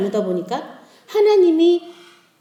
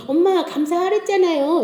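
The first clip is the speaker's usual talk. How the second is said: higher-pitched child imitation; lightly voiced child's reminder; reminding child; 6 semitones higher than usual. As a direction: pipe up like a child correcting mom. Child reminds mother in story.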